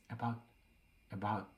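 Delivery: "About, about" said tentatively, like a question; hesitant questioning repeat of "about". A narrator's reading. Will prompting Mike to go on, "about" said like a question. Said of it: "saying it like a question".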